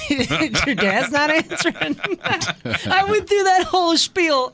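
high, slowed by laughter; laughing while talking. Real, not acted. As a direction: crack up halfway through the line. Cracks up while retelling instructions.

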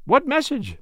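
high-pitched, eager question; eager cry. A narrator's reading. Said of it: "I cried".

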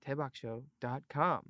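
breathy whispered web address; hushed secretive plug. Pretend.

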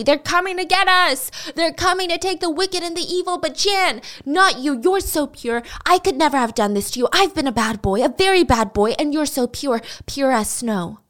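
high-pitched, frantic lament without real tears; acted distraught wail, easing toward the end; mock sobbing. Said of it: "sobbing loudly".

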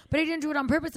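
high-pitched whiny excuse; mock crying. Friend mimicking the scooter rider's excuse for the crash, mock-crying. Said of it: "crying that he has the tiniest scrape".

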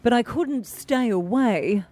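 newsreader voice. Acted. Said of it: "very best newsreader voice will read out the lyrics".

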